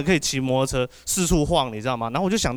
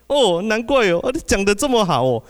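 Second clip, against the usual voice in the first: auntie's reply; 7 semitones higher, 5 dB louder than usual. Retold or imitated.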